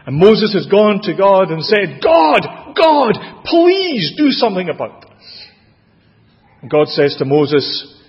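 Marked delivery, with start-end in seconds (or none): 2.0-5.5 high, loud cry to heaven; desperate plea. Acted. Moses crying out to God over the snakes, a loud desperate plea. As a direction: beg God for help at full voice.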